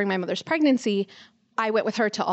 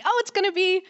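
much higher, eager hopeful thought; bubbling expectation on waking; excited thought of finding the ring; retold excitement; 6 semitones higher than usual. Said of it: "all excited thinking".

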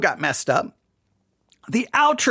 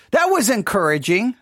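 dry mock praise with a rising lilt; ironic, lightly lifted "encouraging"; sarcastic. Real, not acted. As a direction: pretend to be pleased. Sarcasm about insulting message.

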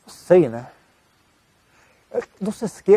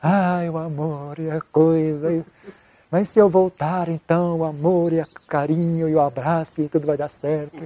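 lightly mocked lovesick sighing; dreamy mock longing, drawn out on "Ai"; romantic inner voice; slower than usual. Monk's wandering thoughts about her during meditation, mildly mocked wistful longing. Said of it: "Aí veio, né?".

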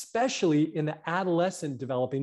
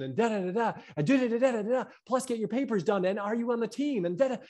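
mock-breathless "da, da, da" climbing higher; overwhelmed rattling list; 7 semitones higher than usual. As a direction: pile it on like it never ends. Mocking endless list of demands.

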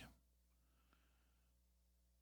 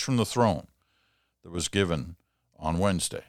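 reading a letter aloud; 2 semitones higher than usual. Acted. Host reads listener letter aloud.

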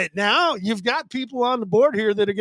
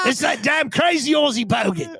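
put-on Australian accent; 4 semitones higher than usual. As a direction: play a rowdy Aussie bogan in an Australian accent. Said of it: "can you get off the Australian accent now?".

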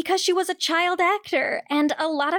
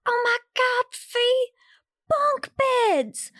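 much higher, mock-thrilled Southern gush; mocking movie Britney gushing to Fee; mock excitement; 8 semitones higher, much slower than usual. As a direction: act dazzled by ordinary bunk beds. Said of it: "Britney even says to Felicia".

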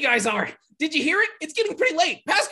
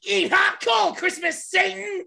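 battle shout; 5 semitones higher than usual. Acted. Attack battle cry.

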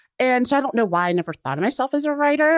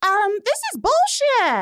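high, mock-flat put-down; deadpan retort; 12 semitones higher than usual. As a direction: fire back a blunt verdict. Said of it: "And I was like".

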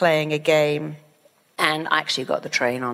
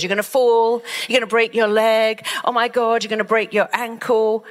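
alarmed mother; 4 semitones higher than usual. Retold or imitated. Mother panicking at child in tree, high alarmed cry. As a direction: shriek a worried warning up the tree. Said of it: "the mother goes".

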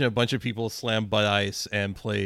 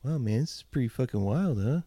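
lightly voiced mellow hippie. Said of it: "the stereotypical hippie voice".

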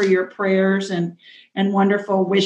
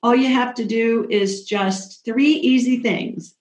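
game show host; 4 semitones higher than usual. Real, not acted. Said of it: "I sound like a game show host, don't I".

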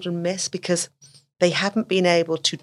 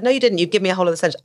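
firm correction; 2 semitones higher, 3 dB louder, much faster than usual. Retold or imitated. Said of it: "I said".

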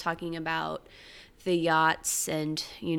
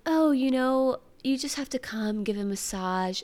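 mock British accent; 4 semitones higher than usual. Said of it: "she's British".

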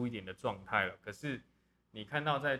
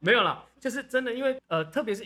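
laughing; 11 semitones higher, 10 dB louder than usual. Real, not acted. Still laughing after joke.

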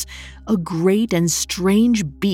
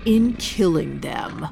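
slow, soft menacing growl; menacing beast voice; 3 dB quieter than usual. Acted. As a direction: let the threat drip out slowly. Set's threat before attack.

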